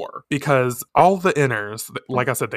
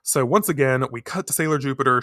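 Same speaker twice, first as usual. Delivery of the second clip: ordinary talk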